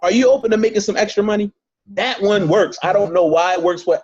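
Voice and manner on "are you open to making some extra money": quick, upbeat money question; demo pitch question. Shown as a demonstration. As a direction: toss it out fast and light. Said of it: "Or you can ask them this".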